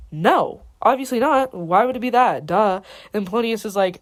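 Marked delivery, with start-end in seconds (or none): 0.1-2.8 emphatic, dismissive comeback; lightly hammed-up "duh" attitude; mock scornful denial. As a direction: scoff as if it's obvious. Claudius scornfully rejects Gertrude's idea.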